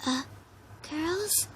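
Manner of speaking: shy and hesitant, barely daring to speak up; timid. A narrator's reading. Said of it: "Fluttershy tried timidly".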